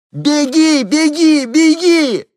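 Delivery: very high, very loud, near crying; desperate scream. A narrator's reading. Henni screams at the woman to run, near tears. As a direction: scream it until the voice breaks.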